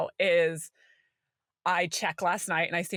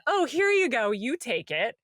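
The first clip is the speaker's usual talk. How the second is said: mock handing over emotion; 4 semitones higher than usual. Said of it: "Took all my emotion and said".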